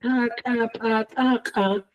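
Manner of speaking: "chacapataja" slow with tight, popped ejective ch, k, p, t; glottalized stops. Shown as a demonstration. Teacher demonstrates the reinforced series to students. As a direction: pinch the throat and pop every stop in "chacapataja". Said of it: "el reforzado sería".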